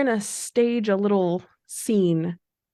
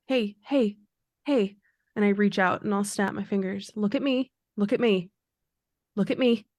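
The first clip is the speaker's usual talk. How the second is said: urgent coaxing. Acted. Urgently snapping friend back.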